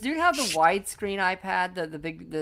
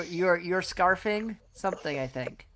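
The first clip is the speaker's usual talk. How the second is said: mouth full; 5 dB quieter, slower than usual. Real, not acted. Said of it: "what are you eating".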